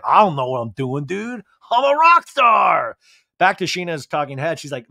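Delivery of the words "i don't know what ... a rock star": clueless Tom. Retold or imitated. Tom shrugging off babysitting in a mock rock-star boast. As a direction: play the helpless uncle bragging. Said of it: "It's like".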